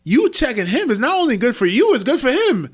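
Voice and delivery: high, loud and insistent; emphatic. Real, not acted. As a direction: press the point hard. Emphatic argument about checking leaders.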